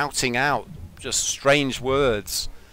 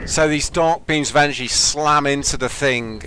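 dramatic game narration; slower than usual. A narrator's reading. Game master describes attack and monster.

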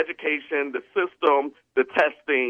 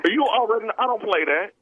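stern warning; 8 semitones higher than usual. Retold or imitated. Principal warning a boy sprawled on the floor, stern and raised. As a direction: lay down the law to a defiant boy. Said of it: "and I said".

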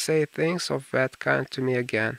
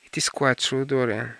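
grave. Acted. Lord Henry confirms the death to Dorian, gravely. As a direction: state the hard truth soberly. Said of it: "said Lord Henry gravely".

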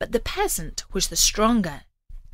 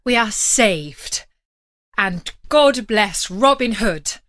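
brightening up; 6 dB louder, slower than usual. Acted. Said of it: "brightening up".

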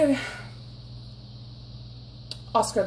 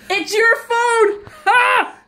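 higher, louder teasing protest; indignant; 9 semitones higher, 3 dB louder, slower than usual. Real, not acted. Arguing over the dropped phone, higher indignant protest. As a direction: throw the blame back, laughing.

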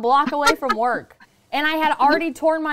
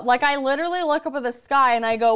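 ordinary delivery

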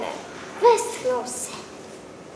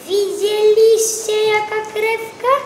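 huffy carrot; 8 semitones higher, 4 dB louder than usual. Acted. Carrot flares up.

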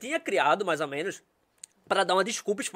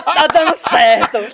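excited aside; 4 semitones higher, 12 dB louder, much slower than usual. Retold or imitated. Thinks to himself prank works.

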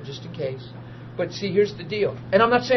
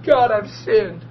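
slow, louder pleading sob; a sinner breaking down before God; slow tearful cry to God; retold sobbing; 2 semitones higher, 5 dB louder, much slower than usual. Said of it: "I start bawling".

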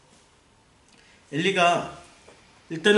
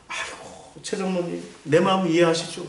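commiserating sigh; 3 dB quieter than usual. Acted. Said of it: "이러고 사십 년을 넘게".

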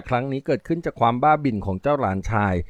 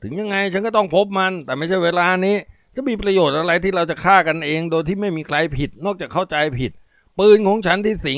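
anxious junkie; 7 semitones higher than usual. Acted.

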